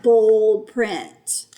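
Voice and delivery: bold print drawn out loud and slow; emphatic and loud. Shown as a demonstration. Teacher showing pupils bold print read loud, emphatic. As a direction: lean hard and slowly on bold print.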